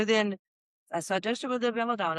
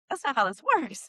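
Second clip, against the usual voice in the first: laughing retort; 7 semitones higher than usual. Retold or imitated. Mocking clients' expectations, laughing.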